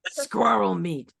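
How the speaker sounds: put-on slow German-accented repeat; drawn out with a light German accent. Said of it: "but in a German accent".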